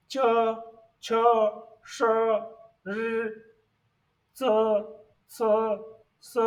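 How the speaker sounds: isolated Chinese initials with pauses between; pronunciation demo of initials. Shown as a demonstration. Teacher reads the second set of initials, demonstrating pronunciation. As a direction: say each initial as a separate syllable. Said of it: "Let's see the initial two".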